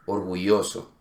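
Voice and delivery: orgulloso with the ll softened to a vowel I. Shown as a demonstration. Teacher shows an accepted regional variant, I for Y. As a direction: say orgulloso as or-goo-ee-oh-so. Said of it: "es correcto decir".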